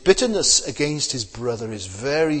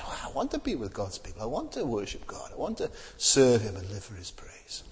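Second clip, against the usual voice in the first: quiet longing; 3 semitones lower, 7 dB quieter than usual. Retold or imitated. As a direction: drop much softer, almost breathless, trailing into a whisper. Ideal believer's heartfelt desire.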